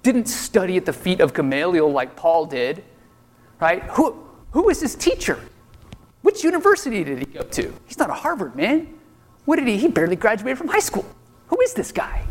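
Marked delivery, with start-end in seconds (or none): 4.0-12.2 sneering, incredulous questions; mock the upstart teacher with scorn; scornful disbelief. Mocking crowd's scornful questions.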